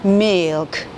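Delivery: milk as a single syllable, not 밀크; milk said slow, one sound. Shown as a demonstration. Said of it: "이 한 글자 포닉스로 보시면".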